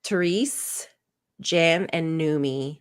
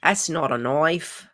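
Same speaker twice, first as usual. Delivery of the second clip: bad Australian accent. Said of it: "my terrible accent".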